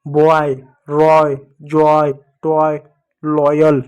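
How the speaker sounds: बॉय, रॉय, जॉय, टॉय, लॉयल drawn out, each ending in a "y" glide; slow word list, बॉय to लॉयल, with a pause after each; pronunciation demo. Shown as a demonstration. Teacher showing students how to read oy, बॉय to लॉयल slowly. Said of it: "तो वाई को यो पढ़ोगे".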